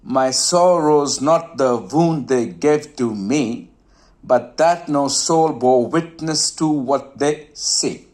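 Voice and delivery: slow, measured verse reading. Shown as a demonstration. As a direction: let the last word "see" fade away. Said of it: "You can listen to it again".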